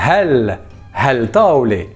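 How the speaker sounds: "hel" with a sounded English-style H; H as in hello. Shown as a demonstration. Teacher showing learners the word for this, clear H demonstration. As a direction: say "hel taolé" with the H clearly heard. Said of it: "le H se prononce comme hello".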